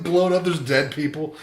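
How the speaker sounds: ordinary talk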